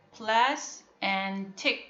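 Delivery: plas and tic, slowly separated; broken into syllables. Shown as a demonstration. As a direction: give each half of plastic its own slow beat. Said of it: "We break here".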